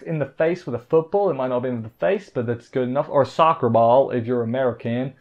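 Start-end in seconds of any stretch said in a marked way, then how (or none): 3.1-5.1 a slight, badly faked American accent; half-hearted go at an American accent. Joking aside to American viewers, bad American accent. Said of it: "that was a bad accent".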